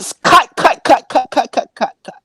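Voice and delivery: loud high panicked wait; high loud shouting. Real, not acted. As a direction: shout to stop the clip. Stopping the clip, embarrassed.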